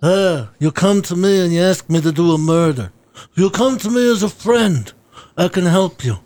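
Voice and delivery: Don Corleone voice. Shown as a demonstration. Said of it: "It's my Don Corleone".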